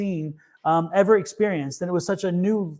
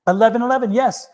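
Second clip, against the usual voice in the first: higher, louder eager confirmation; excited yes; 4 semitones higher, 4 dB louder than usual. Real, not acted. Host confirming the eleven-eleven date, excited. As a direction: jump in excitedly.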